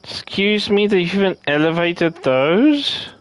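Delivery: high indignant surprise; stunned and indignant; surprised. Real, not acted.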